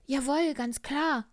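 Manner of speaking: a kindly little bear voice, high and loud. Acted. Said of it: "sagte der kleine Bär".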